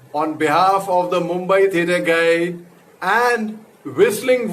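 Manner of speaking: slow, drawn-out welcome to the audience; formal show announcer. Acted. Actor opening his online show to the audience, formal announcer. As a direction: announce it grandly, stretching out the key words.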